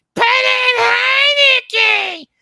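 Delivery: very high, very loud, shrill screeching woman voice. Speaker imitates a loudmouth woman screaming for Heineken, imitating a screaming woman. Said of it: "loudmouth chick up here screaming".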